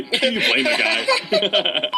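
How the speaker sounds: slow laughing repeat. Real, not acted. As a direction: drag it out through a laugh. Repeats line laughing, slowed.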